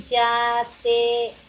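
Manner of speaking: yatecito slowed, each syllable drawn out; slow repeat. Shown as a demonstration. Teacher to class, comparing sounds: slow, careful repeat. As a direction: draw yatecito out slowly for the class. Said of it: "Ese es R y ese es R".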